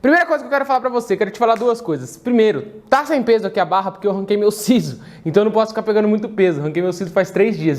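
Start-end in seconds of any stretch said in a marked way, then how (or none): 2.9-7.8 speaking with a swollen mouth. Real, not acted. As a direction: talk around a sore, swollen jaw. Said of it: "eu tô falando um pouco estranho também por conta disso".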